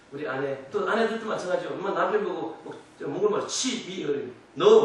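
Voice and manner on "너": scolding wife. Retold or imitated. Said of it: "막 그래".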